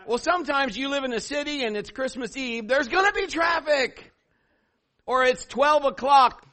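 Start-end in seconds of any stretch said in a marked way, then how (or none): 2.7-6.5 emphatic shout. Real, not acted. Exasperated point about traffic.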